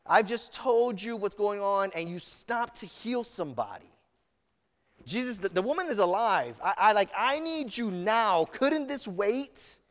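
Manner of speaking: lightly voiced desperate father, pressing harder; anxious father pleading. Father of a dying girl urging Jesus, mildly desperate plea. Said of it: "He's like".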